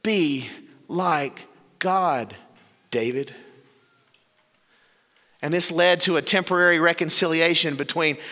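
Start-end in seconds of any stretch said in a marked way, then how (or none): 0.0-3.3 gentle exhortation. Retold or imitated. Preacher quoting Carroll's gentle note to David. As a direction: lay it on him gently, slowly. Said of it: "B H Carroll added this note".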